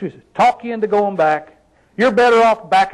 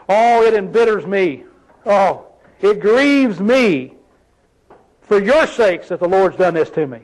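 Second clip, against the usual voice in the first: smooth pity. Retold or imitated. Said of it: "look how smooth she was".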